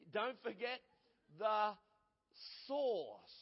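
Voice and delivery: preacher stressing source to the congregation; emphatic. Shown as a demonstration. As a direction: drive home the source. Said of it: "Not S A U C E".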